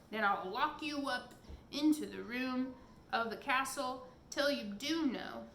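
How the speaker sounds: loud raging giant threat; giant in a rage. Acted. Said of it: "cried the giant in a rage".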